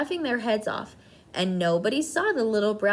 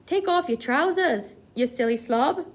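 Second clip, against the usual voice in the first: shouted; 4 semitones higher, 4 dB louder than usual. A narrator's reading. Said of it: "someone else shouted".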